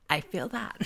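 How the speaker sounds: breathy whispered imitation of Lisa; whispered Lisa impression. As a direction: whisper it like a mock-sincere Lisa. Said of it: "and Lisa's like".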